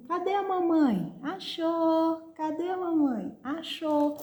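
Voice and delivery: high, sing-song peekaboo game; playful peekaboo voice. Shown as a demonstration. Mother hiding behind a cloth for her baby, high playful peekaboo. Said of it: "Então, eu vou pegar uma folha".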